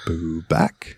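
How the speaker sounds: low, soft mock seduction; seductive. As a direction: murmur it back as a flirty quote. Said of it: "seductively as fuck and just goes".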